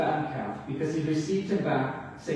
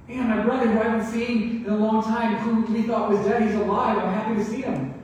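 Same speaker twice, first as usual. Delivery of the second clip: higher, brighter imagined joy; mock excited brother; 5 semitones higher, 4 dB louder than usual. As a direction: act out a happy brother, a bit higher. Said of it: "Is he excited?".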